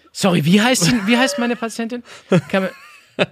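high, halting apology; mock fumbling for a forgotten line; flustered bit-part actor. Bit player fluffing a line beside the lead's monologue, flustered. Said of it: "Und ich dann so".

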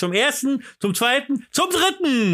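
high rising auctioneer call; going once, going twice, sold. Acted. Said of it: "Und er hat den Zuschlag".

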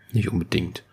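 whispered aside, barely voiced; whispering. Real, not acted. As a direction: drop to a whisper for a quick reply. Quiet aside to someone present.

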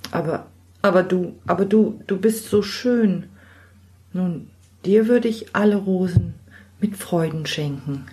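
a hint of a young man, halting and enchanted; lightly voiced smitten knight. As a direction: stumble over the words, lost in her beauty. Tamlin smitten by the girl.

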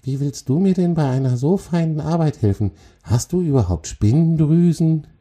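high, sceptical spider voice; hissing into the ear. A narrator's reading. Spider on the troll's shoulder questions his help, lightly hissing. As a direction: doubt him in a high, lightly hissed character voice. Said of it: "zischelte sie in sein Ohr".

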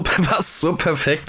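slow, laughing through the words. Real, not acted. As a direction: say it while still laughing. Laughing at the phrase Affentennis.

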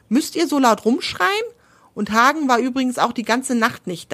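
sleepy owl. Acted. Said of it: "schläfrig".

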